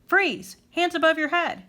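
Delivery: police shout. A narrator's reading. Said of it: "Suddenly there was a shout".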